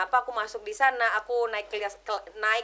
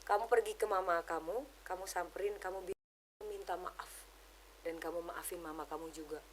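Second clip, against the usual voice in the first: much softer, hushed and tender; gentle divine voice; 6 semitones lower, 12 dB quieter than usual. Retold or imitated. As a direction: speak as a gentle voice of God, fading to a hush. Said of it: "Aku nanya, "Kamu maunya apa, Tuhan?". (suara Tuhan yang lembut dan berbisik)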